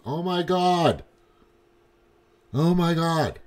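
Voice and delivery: high, drawn-out mock astonishment; imitated shock. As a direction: play a friend stunned by what they found. Acts out coworker finding it online.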